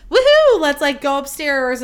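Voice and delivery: high, loud mock woohoo easing into talk; party whoop. Imagining the two girls' prank on getting home, giddy whoop.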